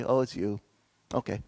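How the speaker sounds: low, soft, accepting dog voice; resigned dog. Acted. Husky letting nephew touch his ears, softly resigned. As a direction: give in gently, dropping low and soft. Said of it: "and the dog would say".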